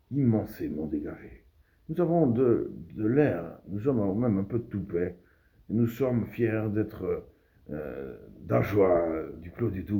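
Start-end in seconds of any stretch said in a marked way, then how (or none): 1.9-10.0 raised, loud orator's voice; proud declamation. Acted. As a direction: proclaim it proudly to the crowd.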